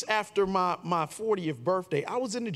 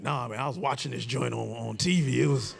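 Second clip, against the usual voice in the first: lower, unbothered reply; lightly voiced lazy brother; 5 semitones lower than usual. Brother on the couch, mildly lowered and unbothered. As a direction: shrug it off casually.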